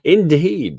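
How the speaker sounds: a clipped upper-class British Indeed; British accent. Shown as a demonstration. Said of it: "I can do a better British accent".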